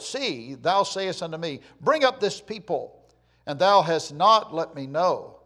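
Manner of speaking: measured declamation of a prayer; scripture reading. Acted. Preacher reads Moses pleading with the Lord, scripture reading. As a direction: read it out as an earnest plea.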